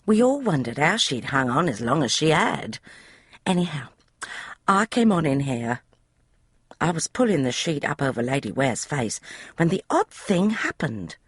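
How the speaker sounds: put-on high, eager young maid's voice; a chatty servant girl, pitched high; maid Polly. Maid Polly explaining the room to Emma, high eager voice. Polly builds her story.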